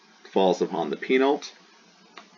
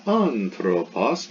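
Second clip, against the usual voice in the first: "anthropos" slow, first syllable lifted; acute on the antepenult; much slower than usual. Shown as a demonstration. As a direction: stretch out "anthropos", accenting AN. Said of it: "the antepenult".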